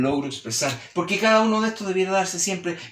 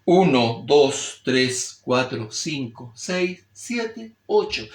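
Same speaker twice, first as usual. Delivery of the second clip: changing tone demo; 2 semitones lower, much slower than usual. Shown as a demonstration. Teacher showing how placement changes tone, shifting-pitch count. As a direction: count slowly, shifting the pitch with each number. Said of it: "Fíjense lo que pasa en el tono".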